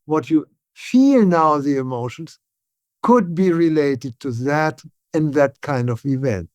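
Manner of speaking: measured, unhurried therapist talking to a client; slow it right down, calmly. Shown as a demonstration. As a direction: speak slowly and deliberately, with pauses between phrases. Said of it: "I would say this in a slow voice".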